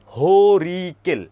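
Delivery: হরিকেল stretched very slowly and loud; drawn-out key word. Shown as a demonstration. Teacher drilling the class on a region's name, drawn out. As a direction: stretch out each syllable of হরিকেল, loudly.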